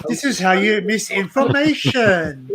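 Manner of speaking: lightly lampoon an English lesson; mock BBC teacher. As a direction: parody language-lesson delivery. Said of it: "It's the B B C go".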